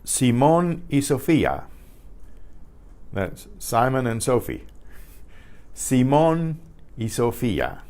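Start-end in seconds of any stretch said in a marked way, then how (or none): 0.0-1.6 Simón y Sofía as see-MON ee so-FEE-ah; careful teacher's reading of Simón y Sofía; Spanish pronunciation demo. Shown as a demonstration. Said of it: "practice the pronunciations". 5.8-7.8 Simón, short gap, y Sofía; teacher phrases Simón y Sofía in two parts; Spanish pronunciation demo. Shown as a demonstration. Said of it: "practice the pronunciations".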